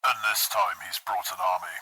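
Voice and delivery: low growl through a helmet. A narrator's reading. Chaplain warning of the orc's army, growling. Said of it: "he growled".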